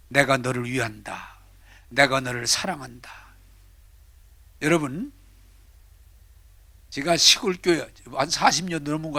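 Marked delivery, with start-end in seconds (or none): 0.1-3.1 voice of God. Acted. Preacher voicing God's words to believers, lightly lower. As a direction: speak as God, gently. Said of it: "하나님은 여러분들에게 하시는 말이".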